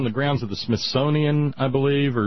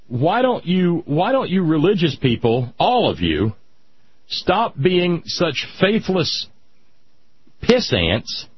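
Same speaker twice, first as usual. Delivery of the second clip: raised pitch, dragging plea to stop; exasperated scolding; 6 semitones higher, slower than usual. Pretend. Speaker to religious people, exasperated high-pitched scolding. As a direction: scold them like a fed-up neighbour. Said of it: "that we could say".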